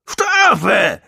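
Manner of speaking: high, loud drawn-out howl. A narrator's reading. Gong demands punishment once John is fighting, howling. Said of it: "heulte Gong".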